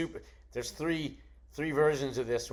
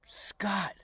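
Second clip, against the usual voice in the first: higher, slow, dawning surprise; a singer's voice pitched up, then louder; imitating the singer's recognition; 7 semitones higher, 8 dB louder, slower than usual. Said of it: "and he goes".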